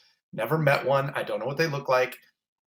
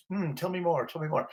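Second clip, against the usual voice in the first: lightly voiced pondering analyst, higher and soft; imagined Freudian therapist; 5 semitones higher, 4 dB quieter than usual. Imagining his dream therapist on the couch, lightly voiced analyst. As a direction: play a hint of a musing psychoanalyst. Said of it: "I'm expecting Sigmund Freud".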